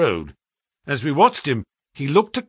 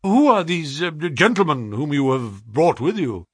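hesitant, slightly raised voice; lightly voiced shaken employer; 3 semitones higher than usual. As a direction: stumble mildly while keeping up appearances. Shaken Pinner questions his clerk.

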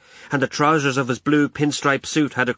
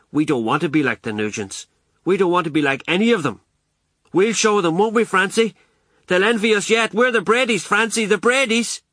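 Ma rallying her son, rising higher; fiercely proud Ma; 7 semitones higher than usual. A narrator's reading. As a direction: build from earnest to high, excited pride.

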